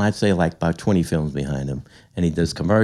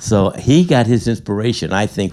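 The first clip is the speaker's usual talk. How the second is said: voice cracking. Real, not acted. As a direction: voice cracking with emotion. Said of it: "I don't know if you can hear my voice cracking".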